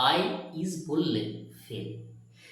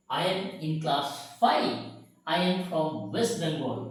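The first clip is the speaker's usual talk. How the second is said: put-on each sentence drawn out very slowly for kids to repeat; slow, patient teacher reading example sentences; slow dictation; 3 semitones lower, much slower than usual. Shown as a demonstration. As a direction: read it word by word so the class can follow. Slow model sentences for class.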